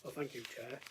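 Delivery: hoarse from a cold; rough, croaky voice with a cold; gravelly voice. Real, not acted. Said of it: "excuse my, uh, gravelly voice this morning".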